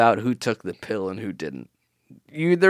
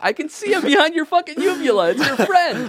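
mock horror; 10 semitones higher than usual. Mock horror accusing Jake.

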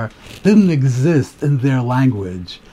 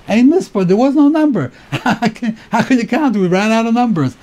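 excited marvel; 8 semitones higher than usual. Real, not acted. Teacher marvels at countless numbers.

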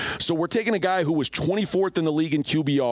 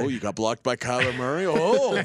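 wife's excited voice. Retold or imitated. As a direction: impersonate his thrilled wife. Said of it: "that was her excited voice".

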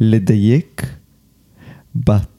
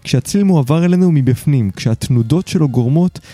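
measured, articulate host's monologue; scripted podcast narration; 3 semitones higher than usual. Acted. Host opens the episode for listeners, scripted narration. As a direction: read it as a polished podcast essay.

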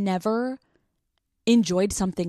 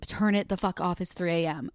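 grumpy sleepy fiance; 4 dB quieter than usual. Retold or imitated. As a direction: grumble like a tired partner woken at night. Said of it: "Matt is not going to be like".

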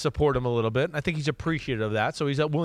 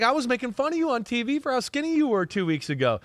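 fast, raised, ribbing a friend; quick teasing quote; 9 semitones higher, faster than usual. Retold or imitated. To the quarterback about how skinny he was, fast teasing. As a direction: tease him quickly, pitched up. Retelling his own ribbing.

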